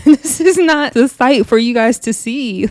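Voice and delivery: talking through real laughter; laughing. Real, not acted. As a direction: giggle while you say it. Laughing at the nuns.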